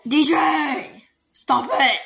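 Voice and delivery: sharp loud call to stop; yelling at pet. Real, not acted. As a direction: shout across the room to stop the dog. Scolding pet fighting the cat.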